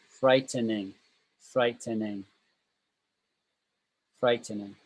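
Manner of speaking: "frightening" run together as one word. Shown as a demonstration. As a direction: model "frightening" smoothly, without syllable breaks. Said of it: "you say that obviously more quickly".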